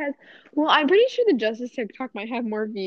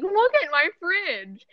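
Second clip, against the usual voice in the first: mock excitement; 6 semitones higher, slower than usual. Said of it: "and being like".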